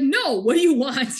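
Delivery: loud, exasperated retold snap; pissed off. Recapper voices him rebuffing her, mock pissed off. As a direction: imitate him fed up and raising his voice. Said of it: "pissed off".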